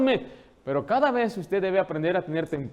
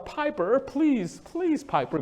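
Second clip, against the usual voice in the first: higher mock plea to a toddler; pleading mother; 7 semitones higher, much slower than usual. Embarrassed mother begging toddler in store, pleading. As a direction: beg the child like a helpless mom. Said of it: "y hablando con el niño".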